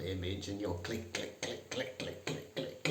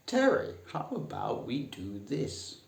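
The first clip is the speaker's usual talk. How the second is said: polite boardroom speak; 4 semitones higher than usual. Shown as a demonstration. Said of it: "don't say".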